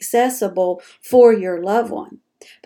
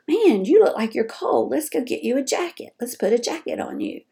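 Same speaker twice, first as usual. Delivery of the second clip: kind offer. Pretend. Caregiver kindly offering a cold parent a jacket, gentle. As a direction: coax them kindly toward a jacket. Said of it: "all you had to say was".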